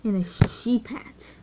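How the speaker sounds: speaking with hiccups. Real, not acted. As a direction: hiccup between words. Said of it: "I keep on hiccuping".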